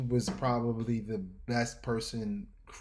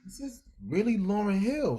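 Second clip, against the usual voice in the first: starstruck disbelief; 10 semitones higher than usual. Retold or imitated. Peeking at her in disbelief.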